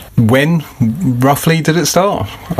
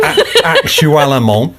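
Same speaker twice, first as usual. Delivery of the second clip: mock French accent; 2 semitones higher, much slower than usual. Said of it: "I'm speaking French, actually, Dan".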